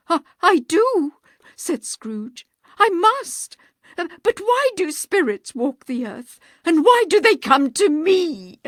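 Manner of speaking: high, loud, shaken questions; stammering fear. Acted. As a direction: stammer out a frightened answer.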